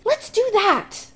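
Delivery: high, slow tipsy enthusiasm; excited drunk. Acted. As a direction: cheer it like a happy drunk. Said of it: "Chris exclaims".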